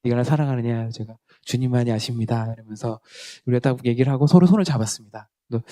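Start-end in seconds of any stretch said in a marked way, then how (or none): 0.0-0.9 playing Jesus. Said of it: "네가 예수님 해라". 1.4-2.5 playing Peter. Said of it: "내가 베드로 할게".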